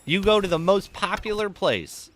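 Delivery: high, loud scolding of a lady; imagined rant. Pretend. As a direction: lecture her in an imagined tirade. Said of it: "I wanted to get up and be like".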